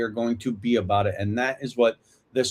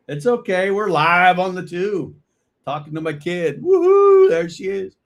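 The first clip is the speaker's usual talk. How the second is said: bright, much higher and louder, cheerful; excited greeting; 7 semitones higher, 5 dB louder than usual. Real, not acted. Dad on the phone with his daughter, excited and upbeat. Daughter FaceTimes during live stream.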